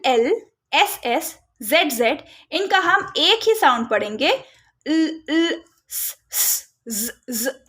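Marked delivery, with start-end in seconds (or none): 4.9-7.6 ल, ल, स, स, ज, ज read twice as separate sounds, the wrong way; wrong doubled sounds. Shown as a demonstration. Teacher demonstrating a wrong reading, softly. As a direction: model the mistake children make. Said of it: "ऐसा नहीं पढ़ना है".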